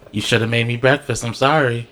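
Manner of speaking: lightly voiced calm man, a little low; understated, even-toned complaint; calm reproach. Man outside his burnt house to partner, calm reproach. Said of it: "he'll say it calmly".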